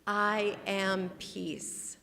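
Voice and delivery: very slow, each word weighted; slow spoken mantra; slow affirmation. Shown as a demonstration. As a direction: lay down each word slowly. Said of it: "Say it again".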